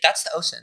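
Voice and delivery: "ocean" as OH-sin, deadpan; unaccented mispronunciation. Acted. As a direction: say "ocean" with S for SH, no accent put on. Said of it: "an accent or anything into it".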